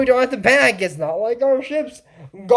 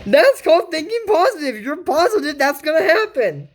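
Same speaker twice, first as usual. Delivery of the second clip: sarcastic; 5 semitones higher than usual. Real, not acted. Sarcastic mockery of Isabel.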